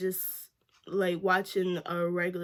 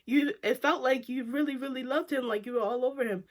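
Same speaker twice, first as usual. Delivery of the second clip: shocked disbelief; 5 semitones higher than usual. Retold or imitated. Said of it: "and I was just like".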